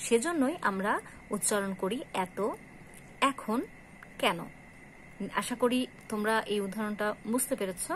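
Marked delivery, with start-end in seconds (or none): 2.3-4.4 এত, এখন, কেন as "ae-to, ae-khon, kae-no"; open ae. Shown as a demonstration. Teacher summing up the rule, open ae in এত, এখন, কেন. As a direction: open first vowels in এত, এখন, কেন, one word at a time. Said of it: "এর মতো উচ্চারণ হবে".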